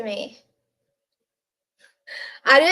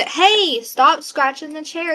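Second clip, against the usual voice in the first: sharp raised call at the cat; scolding a cat scratching the chair, raised voice; 4 semitones higher, 5 dB louder, slower than usual. Real, not acted. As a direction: tell the cat off from across the room.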